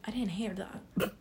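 slow unvoiced whisper; whispered aside. Real, not acted. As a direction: whisper it sheepishly.

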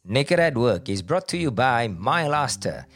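ad read. Acted. Sponsor ad read.

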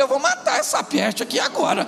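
high-pitched exasperation; exasperated muttered threat. Acted. Husband reacts to his shouting wife, mock exasperation.

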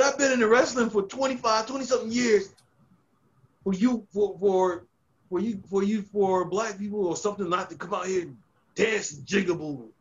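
put-on angry older wrestler tearing into a new guy; loud scolding rant. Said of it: "And he's really loud".

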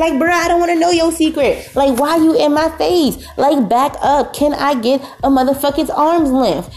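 high, fed-up back off; exasperated rant. Acted. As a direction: push him away with your voice. Rant at whispering guest.

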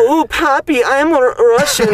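put-on Russian accent. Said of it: "a really good Russian accent?".

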